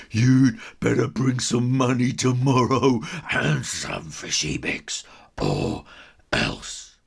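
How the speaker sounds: lightly voiced playground thug; bully threat.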